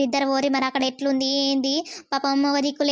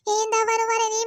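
shocked; 6 semitones higher than usual. Acted. Daughter hears of father's accident.

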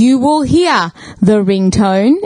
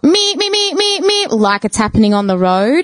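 imitated ringtone. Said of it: "ringtones going off".

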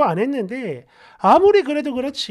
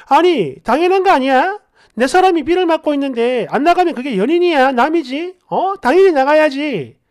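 raised voice, pressing the point; indignant insistence; 2 semitones higher, 5 dB louder than usual. Acted. Girlfriend arguing a partner should come out, indignant. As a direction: insist as if it is obvious. Girlfriend argues back in acted quarrel.

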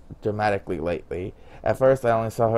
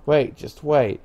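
raised, higher voice, short of a real shout; understated narrated yell, pitched up; mild yell; 5 semitones higher, slower than usual. A narrator's reading. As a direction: call after someone running off, half-heartedly. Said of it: "I yelled at her".

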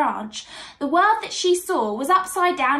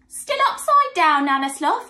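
higher, louder animal taunt; jeering animals; 4 semitones higher, 5 dB louder than usual. A narrator's reading. Forest animals mock Nana Sloth as they pass, jeering. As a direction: call it out mockingly at the sloth. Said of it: "they would bark and growl and shriek and howl".

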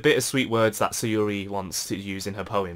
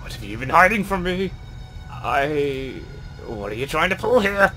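loud, higher accusing voice; angry accusation; 3 semitones higher, 4 dB louder than usual. Acted. Sayori accusing John, loud and angry. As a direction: demand it in fury.

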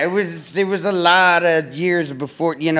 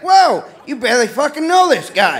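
snapping at them; 8 semitones higher than usual. Retold or imitated. Caller snapping at strangers on the phone line, blurted outburst. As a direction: blurt it out, half laughing, appalled. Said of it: "and I snapped".

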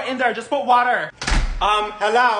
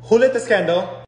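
shouted at the bathroom door, a bit higher; loud mom-style scolding; 4 semitones higher, 5 dB louder than usual. Acted. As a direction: yell through the door like a fed-up mom. Big sister yelling like mom.

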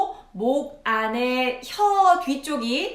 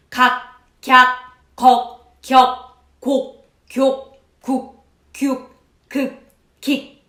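staccato; 6 dB louder, much slower than usual. Shown as a demonstration. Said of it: "스타카토로".

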